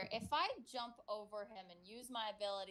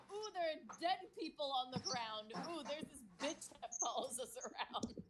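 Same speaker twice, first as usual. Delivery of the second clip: mock wonder; 3 semitones higher than usual. Player recapping waking from a coma to friends, mock wonder. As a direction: play up clueless amazement at each thing. Mock retelling own bewildered reaction.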